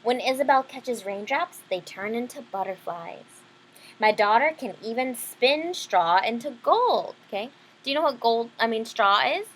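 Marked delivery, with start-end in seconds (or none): 0.0-7.1 bragging miller. Acted. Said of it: "bragged the miller".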